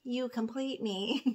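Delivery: a swooning movie-line read; redone movie quote. Retold or imitated. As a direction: savour "You complete me", drawing it out and rising on "me". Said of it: "I would like to redo that".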